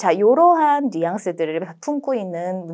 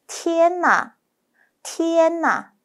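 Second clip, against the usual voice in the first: amazed gasp, high pitched; 8 semitones higher, slower than usual. Shown as a demonstration. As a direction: gasp it out in wonder. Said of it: "다시 한번 얘기해 볼게요". (깜짝 놀라며 높게)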